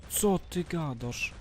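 high, slow, disbelieving exclamation; incredulous. Real, not acted. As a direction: stretch it out in disbelief. Reacting to something in game.

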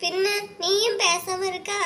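high, slow tearful complaint; crying. Acted. Wife answering her husband, slow and tearful. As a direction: complain slowly through tears. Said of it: "நீ இப்ப எதுக்கு அழுதுட்டு இருக்கா".

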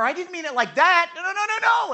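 rising, loud panicky denial; flustered backpedaling. Retold or imitated. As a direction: scramble to take it back, high and loud. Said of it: "and I'm like".

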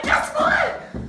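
very high breathy guess what; teasing squeal. Retold or imitated. Girl running up to her friend, teasing with excitement. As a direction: tease the news in a squeal. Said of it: "I'm like".

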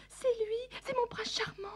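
breathless lovestruck whisper; whispered swoon. Acted. Swooning over her prince.

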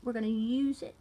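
drawling redneck accent; put-on country redneck. Shown as a demonstration. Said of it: "like to do a redneck accent".

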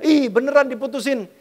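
normal talking voice

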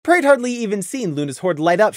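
plain reading voice

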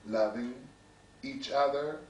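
measured poetry reading with deliberate pauses; poem recitation. Acted. Poet reading to an audience about brothers loving brothers, measured recitation. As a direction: recite line by line, letting each phrase settle. Reads another poem aloud.

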